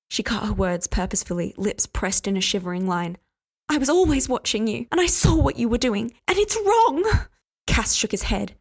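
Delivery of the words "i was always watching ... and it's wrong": building from loud accusation to a high shriek on wrong; rising angry outburst. Acted. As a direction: climb until she shrieks it.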